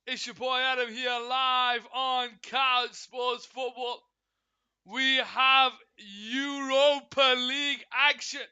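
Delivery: slow, drawn-out hype announcer read; announcer intro. Acted. To stream viewers, opening the show as a slow hype announcer. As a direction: welcome viewers like a broadcast host.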